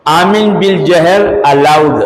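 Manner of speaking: slow, measured pronouncement, lightly voiced; judge's ruling. Preacher retells the colonial judge's verdict, slow and measured. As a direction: read it out like a British judge's verdict, slowly. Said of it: "अब जज सुना रहा फैसला".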